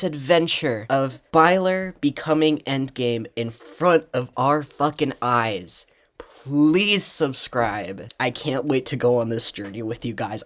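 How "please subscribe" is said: whisper. Real, not acted. Whispered subscribe plea.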